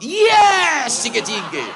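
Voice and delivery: high shouted yes, laughing; innocent reply. Retold or imitated. The preacher answers the stranger, high, loud and laughing. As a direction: answer eagerly, clueless. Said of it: "Akhirnya kula jawab".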